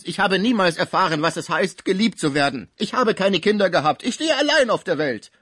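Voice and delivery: high, loud, rising lament; anguished cry. A narrator's reading. Sick man protests his lonely life, loud anguished outcry. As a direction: pour it out as a desperate protest. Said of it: "rief Pons".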